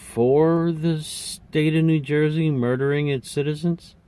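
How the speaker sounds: can't believe what she just heard; stunned disbelief. Retold or imitated. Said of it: "her jaw drop".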